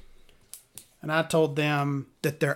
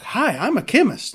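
higher, lightly mocking self-introduction; pompous chemist; 7 semitones higher, 3 dB louder than usual. Mocking the guy who introduced himself as a chemist. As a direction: parody his stuffy hello. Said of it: "And he's like".

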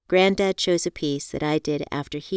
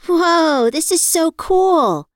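high, thrilled and amazed; excited gasp; 12 semitones higher, 8 dB louder, much slower than usual. A narrator's reading. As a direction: gasp it out in delight. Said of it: "Joanne gasped".

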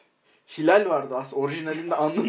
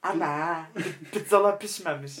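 put-on Alamancı accent; 2 semitones higher than usual. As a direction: imitate a German-Turkish Alamancı accent. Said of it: "Alamancı".

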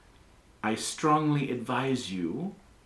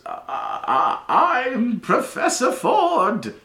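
put-on high, loud, slow old wizard voice; a mad professor's booming announcement, drawn out; high slow professor proclaiming to his class; eccentric old professor; 14 semitones higher, 9 dB louder, slower than usual. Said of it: "he goes".

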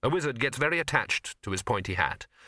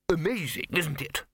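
higher, delighted with himself; happily; 6 semitones higher than usual. A narrator's reading. Lecturer showing off wire beards: higher happy voice. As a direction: beam through the words. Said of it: "said the lecturer happily".

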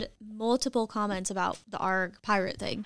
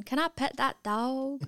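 put-on kid in video; 4 semitones higher than usual. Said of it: "video of the kid going".

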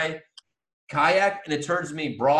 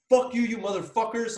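retold cursing; 7 semitones higher than usual. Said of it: "I start cursing at the".

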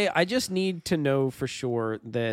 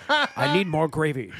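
put-on slow, half-managed Scottish accent; attempted Sean Connery accent. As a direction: lightly attempt a Scottish actor's accent, drawn out. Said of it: "I can't do his accent".

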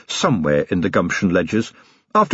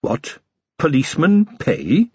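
mildly bewildered question; puzzled, with a touch of disbelief; 5 semitones higher, slower than usual. A narrator's reading. Tobacconist told that police will pay, bewildered. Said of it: "looked extremely bewildered".

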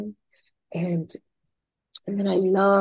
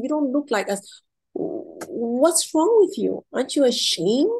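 livid scolding; 5 semitones higher than usual. Retold or imitated. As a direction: scold them like an outraged official. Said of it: "So now he's livid".

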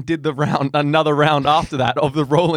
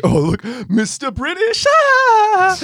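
higher, far-off teasing voice ending in a squeal; mock British taunt; 5 dB louder, much slower than usual. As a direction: jeer at him like a mock Brit. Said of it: "so I'm like, I take the piss in really lame ways".

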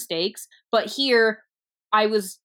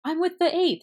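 acted introduction; 11 semitones higher than usual. Acting out meeting with the brother.

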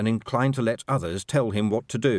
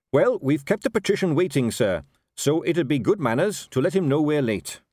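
higher, polite captain voice; earnest captain, dutiful; 7 semitones higher, 4 dB louder than usual. Acted. Captain explaining why he must signal the patrician, earnest. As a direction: explain dutifully and brightly to your superior.

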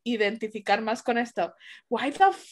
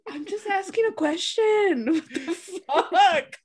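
laughing disbelief; 4 semitones higher, slower than usual. Real, not acted. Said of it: "And it's like".

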